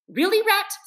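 high, peevish exasperated question; sulky and fed up; pettish. A narrator's reading. Mole tired of the rat's folly, pettish complaint. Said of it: "said the mole quite pettishly".

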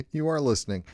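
mock surprise. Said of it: "I'm like".

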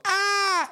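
high-pitched "aah!" squeal; high imitated toy cry; mock falling Furby yell. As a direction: squeal like a toy knocked off a table.

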